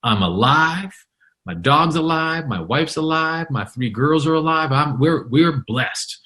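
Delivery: high-pitched imitated elation; lit up. Storm survivor telling reporter all are alive, lit up. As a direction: act out a man thrilled to be alive. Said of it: "this guy was lit up".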